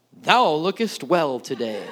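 slow, mock-archaic greeting; playfully stately old-fashioned address; Old English style. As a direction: lightly declaim it like King James English. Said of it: "talk in Old English terms of sixteen eleven".

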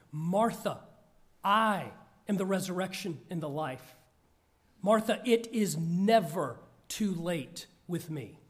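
a firm, emphatic voicing of Jesus; pointed and powerful. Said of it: "saying pointedly and powerfully".

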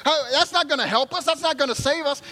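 high, worked-up scolding; a frightened man ranting at his calm friend; frantic worried castaway; panicked exasperation. Acted. Worried man berates the other.

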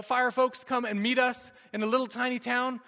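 usual speaking voice

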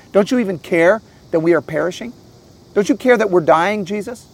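mildly indignant pleading questions; anxious, upset disciples. Acted. Disciples accusing Jesus of not caring, mildly anxious. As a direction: plead with a touch of hurt accusation. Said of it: "you can hear it in their voice".

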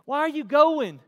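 high, very loud scolding; escalating shouted reproof, slowing at the end; exasperated shout. Acted. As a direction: yell the warning at someone who won't listen. God's command replayed in exasperation.

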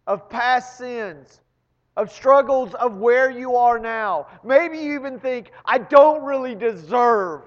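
high and loud, pleading preaching; full-force preaching. Acted. Preacher urges guilty listeners to walk out free, soaring and loud. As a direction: lift it up and plead with the room.

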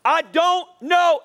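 high, slow, loud declaration; emphatic rallying lead for a crowd to repeat; like you mean it. Shown as a demonstration. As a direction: stretch each word out with conviction. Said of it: "say it like you mean it".

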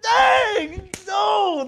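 high, loud acted cries of amazement; joyful shouting. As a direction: holler it out in mock astonishment. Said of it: "They're like, they're shout".

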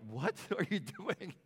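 high, slow, loud astonished question; mock shocked protest. Grandchildren to grandfather whipping himself, mock shock. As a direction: imitate kids aghast, drawing the words out. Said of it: "They're like".

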